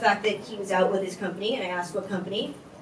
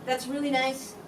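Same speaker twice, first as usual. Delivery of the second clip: restrained, hushed retort in a retold exchange; controlled firm reply; 8 dB quieter than usual. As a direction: correct him quietly and evenly. Firm reply to his apology.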